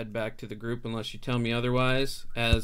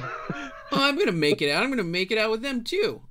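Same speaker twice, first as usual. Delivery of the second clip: much higher and louder, boasting; cocky kid; 11 semitones higher, 6 dB louder than usual. Acted. GM voicing the cocky kid to the party: high, loud bravado. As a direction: crow it like a brash little boy.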